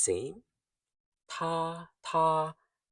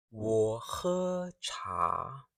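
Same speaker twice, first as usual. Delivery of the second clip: very slow, careful 我喝茶; slow model repeat; much slower than usual. Shown as a demonstration. Teacher to class, slowly repeating. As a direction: drag 我喝茶 out so students copy. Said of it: "listen carefully and speak with me".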